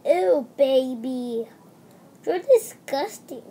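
drawn-out, slow disgusted ew; mock disgust. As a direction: play mommy grossed out by the baby. Mommy scolds doll, disgusted.

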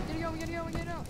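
high, hurried-sounding repetition; urgent plea. Acted. Character urging the others to flee, urgent.

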